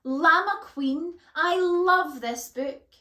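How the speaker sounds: high, loud, drawn-out squeal of joy; overjoyed fan squeal; delighted squeak. A narrator's reading. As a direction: gush ecstatically, stretching the words. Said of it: "Tangine squeaked in delight".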